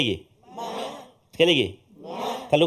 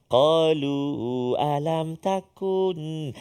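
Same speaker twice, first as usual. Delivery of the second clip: slow recitation; much slower than usual. Shown as a demonstration. Recitation demo.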